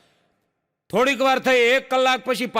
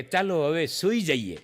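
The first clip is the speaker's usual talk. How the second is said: sleepy fiancée; 4 semitones lower, 4 dB quieter than usual. Retold or imitated. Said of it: "ઓલી પાંચ વાગે ઓલી એમ કહે".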